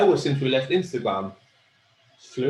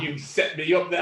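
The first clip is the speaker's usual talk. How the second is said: laughing customer; 4 semitones higher, 3 dB louder than usual. Retold or imitated. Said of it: "she was like".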